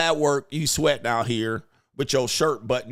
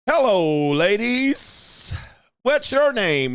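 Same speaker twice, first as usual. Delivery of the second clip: mock smooth pickup line; 7 semitones higher, much slower than usual. Mocking the guy at the bar greeting the ladies, cheesy. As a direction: croon it like a cheesy pickup artist.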